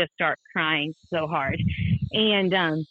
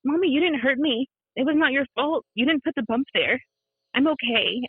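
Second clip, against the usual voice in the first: higher, lightly voiced child; a hint of little-girl voice, comforting; composed five-year-old; 6 semitones higher than usual. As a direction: imitate a young child reassuring Mommy. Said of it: "great presence of a five-year-old".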